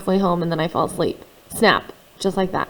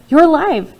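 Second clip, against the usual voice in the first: loud, high, joyful shout of relief; boy shouts to his father that he lives, loud and high; 7 semitones higher, 8 dB louder than usual. Acted. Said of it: "I shouted".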